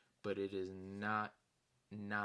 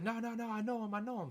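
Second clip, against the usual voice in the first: higher, louder quick protest; hasty backpedal; 11 semitones higher, 5 dB louder, faster than usual. Retold or imitated. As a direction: rush it out, caught red-handed. Nick hastily backing out.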